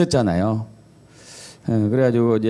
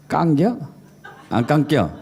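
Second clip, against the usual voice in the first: terse Chungcheong accent questions; Chungcheong dialect. Shown as a demonstration. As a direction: squeeze it short, Chungcheong style. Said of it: "충청도가 어떻게 하죠?".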